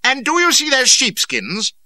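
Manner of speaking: high, loud, slow raging demand; bawling. A narrator's reading. Cardigan bawls at Reynolds about the sheepskins. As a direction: bellow the question with fury. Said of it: "bawled Cardigan".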